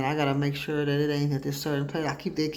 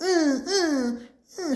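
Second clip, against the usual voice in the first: imitating daughter's refusal; 12 semitones higher, slower than usual. Daughter voiced jerking from father.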